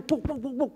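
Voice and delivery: high slapping noises; pat-pat sounds, light and high; imitated slapping. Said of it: "Itu kayak saya itu". (bunyi tepukan tinggi)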